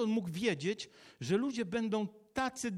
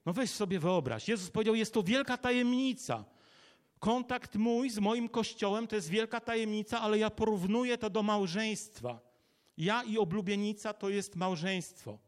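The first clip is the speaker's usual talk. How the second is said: higher, driven sermon delivery; impassioned preaching; 3 semitones higher, 3 dB louder than usual. Real, not acted. Preacher likening church to marriage, impassioned. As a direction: press the point home to the congregation.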